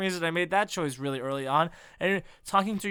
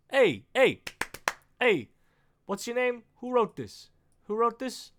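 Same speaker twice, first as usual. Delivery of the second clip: calling out; 7 semitones higher, 3 dB louder than usual. Real, not acted. Calling out at the screen.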